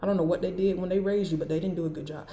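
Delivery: stern scolding without yelling; firm reprimand at talking volume; straight, controlled telling-off. Shown as a demonstration. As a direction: read them in an even, matter-of-fact tone. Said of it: "I'ma just tell you straight like this".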